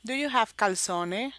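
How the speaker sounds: lightly Italian-accented calzone in a test question; a touch of Italian accent on calzone; attempted Italian accent. Shown as a demonstration. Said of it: "need to use the Italian accent".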